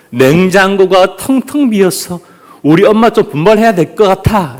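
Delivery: mock complaint. Child at the empty fridge, mock complaining. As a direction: lightly act a disappointed child. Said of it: "라고 말합니다".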